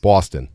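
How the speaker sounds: "Boston" starting like B-A-W; "baw" vowel. Shown as a demonstration. Guest answering host, long "aw" vowel. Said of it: "It's like a B A W".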